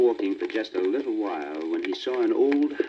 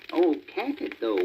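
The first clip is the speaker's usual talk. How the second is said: wailing; 6 semitones higher than usual. Acted. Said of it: "wailed the cat".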